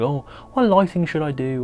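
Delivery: mildly mocking unsure photographer voice; timid. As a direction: dither meekly, as if lost on a shoot. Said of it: "being quite timid".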